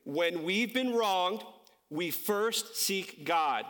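very slow, spaced-out demonstration; measured phrase with a pause midway; slow model line. Shown as a demonstration. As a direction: say it slowly for a crowd to copy. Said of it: "I'm gonna say it one more time".

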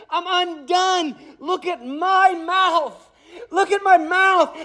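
high, trembling awe before holiness; awestruck dread. Acted. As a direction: gasp it out, overwhelmed and afraid. Isaiah voiced in awe and dread.

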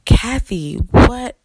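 stammering, incredulous outburst; shocked. Retold or imitated. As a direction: re-enact stunned protest to the boss. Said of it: "I was in complete and total shock".

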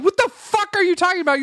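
high, fast mock outrage; mock rapper. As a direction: fire it off quick as an imitated rapper. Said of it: "you could be Ice Cube in this moment going".

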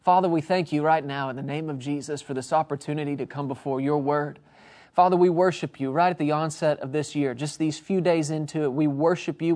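earnest, steady prayer to the Father. Acted. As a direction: pray over the listeners with conviction. Leads a prayer.

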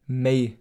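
"Mei" with an ey diphthong; Upper Palatinate form. Shown as a demonstration. Teacher showing the Oberpfalz sound, ey glide in "Mei". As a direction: say "Mei" as in English may. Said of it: "oder der A-Laut".

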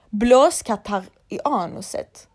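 half-hearted imitation of yelling; retold shout. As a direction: re-enact a shout, drawn out and only half yelled. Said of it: "när jag skriker i bilen".

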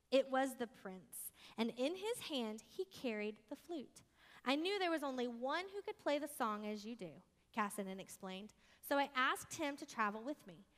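storybook reading voice; story narration. A narrator's reading. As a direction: read it like a bedtime tale. Reads story aloud to congregation.

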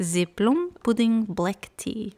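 mock Russian accent sliding in, slow; a Russian accent creeping into the British; slipped into Russian. Podcast host reading tea name, mock Russian accent. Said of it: "I went, like, Russian there for a second".

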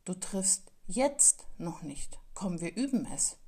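slow whispered encouragement, barely voiced; gentle encouragement. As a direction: hush it kindly, like comforting a child who missed. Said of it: "Dann hätte man auch sagen können".

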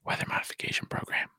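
hushed conspiratorial whisper. Acted. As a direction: lean in and whisper it. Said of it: "As I went into whisper voice there".

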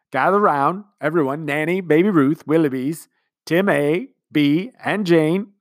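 pompous commander calling everyone round; commander's speech. A narrator's reading. Commander gathering the household, grand. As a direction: summon the family grandly, slowing on the last names.

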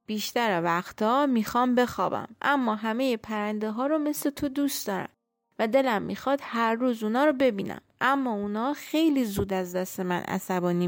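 put-on lonely old tree. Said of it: "خیلی دلتنگ شده بود".

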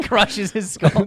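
lightly voiced cartoon doom; mock dramatic narration. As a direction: draw it out like a movie trailer gag. Narrating gag in a put-on voice.

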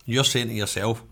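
talking with a mouthful of Twix; chewing while talking; mouth full. Real, not acted. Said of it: "I've got a lot of Twix in my mouth".

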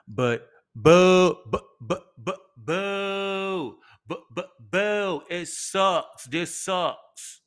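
high, stuttered mock sob on boo; mock wail. Complaining about Ticketmaster lottery, a hammed-up mock wail. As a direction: fake blubbering boo, hammed up.

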